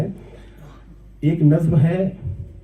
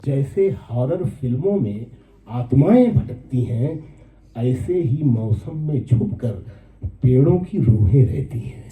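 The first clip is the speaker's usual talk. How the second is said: poem recitation. Acted. First take of verse. (धीमे, नीचे सुर में नज़्म पाठ)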